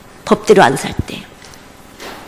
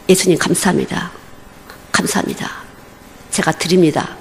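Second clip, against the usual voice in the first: hushed prayer; 3 semitones lower, 7 dB quieter than usual. Shown as a demonstration. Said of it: "아주 습관적으로".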